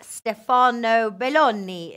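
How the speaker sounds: Stefano Belloni slow and drawn out; slow, emphatic Stefano Belloni; careful corrected name. Shown as a demonstration. Repeats the corrected name with care.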